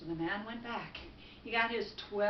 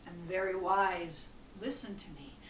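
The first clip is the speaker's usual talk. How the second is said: assured wise woman; 5 semitones lower than usual. Acted. Wise woman reassures the man.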